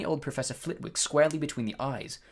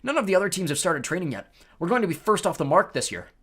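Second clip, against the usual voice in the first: enthusiastic; 5 semitones higher, 6 dB louder than usual. Acted. Wood keen on training.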